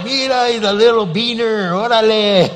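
loud, high cheer of a thrilled dad; excited shout. Retold or imitated. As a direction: whoop it out in delight. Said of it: "I was so excited".

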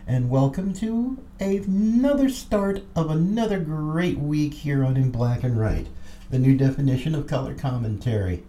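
booming showman host welcome; grand entrance announcement. Acted. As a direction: roll out the welcome like a ringmaster. Host's big show opening.

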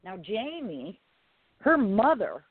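normal talking voice

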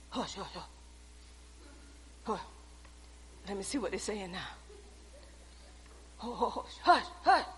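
very soft, shushing whisper; hushing the room. Acted. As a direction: shush everyone to hear the news.

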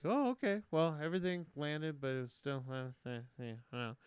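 imitated lukewarm self-review; mock unsure shrug. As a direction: let it fizzle out, noncommittal. Acts unsure reaction to first show.

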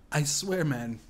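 usual speaking voice

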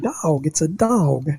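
drawled hillbilly dog; a hint of hillbilly drawl; appalachian accent. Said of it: "talk like a hillbilly".

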